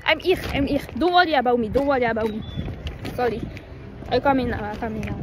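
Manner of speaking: English lines in a hammed-up English accent; put-on English accent. Vlogger to her mum, in a put-on English accent. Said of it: "avoue, mon accent, il était double".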